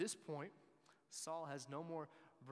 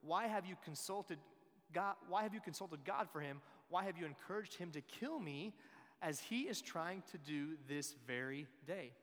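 raised, indignant volley of accusing questions; angry interrogation; 3 semitones higher, 5 dB louder than usual. Acted. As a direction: fire accusations like an affronted king, higher and louder. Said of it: "he's so mad at David".

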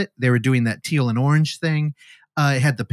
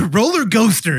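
laughing echo; 6 semitones higher, 4 dB louder than usual. Real, not acted. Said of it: "Dad, love it, dude".

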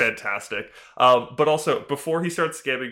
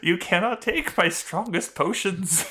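slow, higher haughty shopkeeper voice; potion seller meme; 5 semitones higher than usual. Retold or imitated. Scamming healer quoting the potion seller, slow haughty refusal. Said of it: "he's just potion seller".

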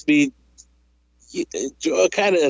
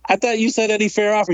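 amused; 10 semitones higher than usual. Retold or imitated. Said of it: "I was amused".

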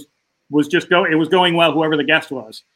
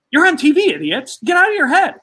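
much higher, urgent inner scolding; scolding himself; 9 semitones higher than usual. Retold or imitated. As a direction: snap yourself out of it, half joking. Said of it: "I start thinking".

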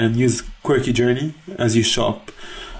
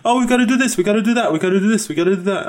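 Jo impression; 9 semitones higher, faster than usual. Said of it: "messages from Jo going".

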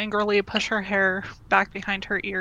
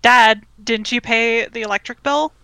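mild yell; 5 dB louder than usual. Acted. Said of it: "start yelling".

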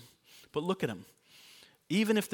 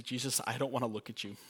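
quiet confession; 6 dB quieter than usual. Shown as a demonstration. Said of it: "You can tell him that".

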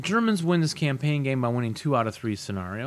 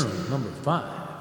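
tin can sound. Real, not acted. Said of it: "This is a big empty box".

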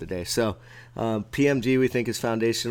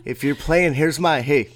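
laughing; 3 semitones higher, 5 dB louder than usual. Real, not acted. Laughing about pulled groin.

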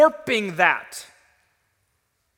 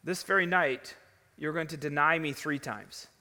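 lower, hushed, measured reply; solemn prediction; 6 semitones lower, 6 dB quieter than usual. Acted. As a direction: drop low and soft to foretell a betrayal. Jesus solemnly answers Peter's loud vow.

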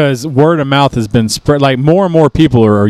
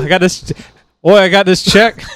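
mock Australian accent; 2 semitones higher than usual. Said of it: "trying to speak Australian".

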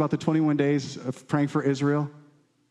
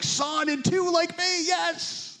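voice of the witnesses; 10 semitones higher, slower than usual. Retold or imitated. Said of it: "cloud of witnesses is like".

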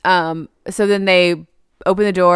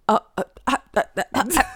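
higher, stammering fangirl overwhelm; mock fangirling; 6 semitones higher, much faster than usual. Fan reacts to hearing the hit's name, mock fangirling. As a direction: imitate a starstruck fan stuck on one syllable. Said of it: "fangirling out on, on this mob hit".

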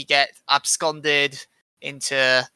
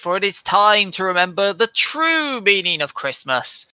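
preacher voice; 2 semitones higher than usual. Pretend. Mock sermon opening to listeners.

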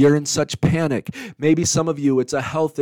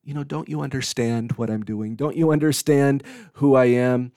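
put-on gentle, like to a child. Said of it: "like the way you would talk to a child".

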